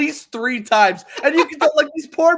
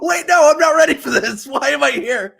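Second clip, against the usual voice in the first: mock panic; 5 semitones higher than usual. Guest retelling panic on going live unexpectedly, mock alarm. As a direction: play the caught-off-guard guest. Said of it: "I was flipping out".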